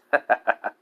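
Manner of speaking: short light laugh; small amused laugh; amused chuckle. A narrator's reading. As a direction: chuckle briefly at someone's expense. Hiruzen's amusement after smirking line.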